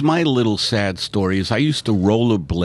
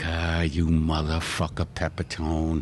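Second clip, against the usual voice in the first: sun as angry parent; 6 semitones lower, 7 dB quieter than usual. Pretend. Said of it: "This is the sun".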